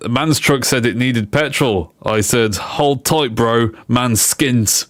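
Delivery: a hint of London roadman; roadman style. Streamer reading petrol pun to viewers, light roadman impression. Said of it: "do my best Roadman style".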